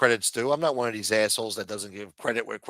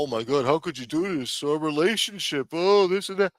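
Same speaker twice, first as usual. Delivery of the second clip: high whiny mock complaint; whiny mock European; 4 semitones higher than usual. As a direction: whine it like an offended ally. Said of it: "Now he's a big bad asshole".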